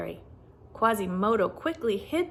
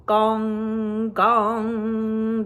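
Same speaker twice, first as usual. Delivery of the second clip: bell sounds; 6 dB louder than usual. A narrator's reading. Bells chiming in story.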